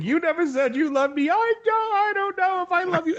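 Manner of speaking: mock girl voice. Podcast host imitating a man reading Hawkgirl's lines in a high mock girl voice. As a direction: squeak it out like a man playing a girl. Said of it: "and they're doing these voices".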